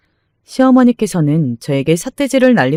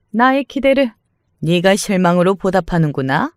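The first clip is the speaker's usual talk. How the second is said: outraged mother-in-law. Acted. Mother-in-law insulted by daughter-in-law's sarcasm, sputtering then lecturing. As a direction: sputter with rage, then look down on her.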